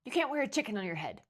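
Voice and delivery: loud, high scornful shouting; horrified busybody yelling; bellowing. A narrator's reading. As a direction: scold her at full volume. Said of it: "bellowed Missus McSnoot".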